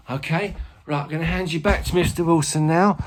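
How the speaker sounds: chatty informal pupil-like presenter; Ernie. Acted. Teacher plays Ernie, a helper.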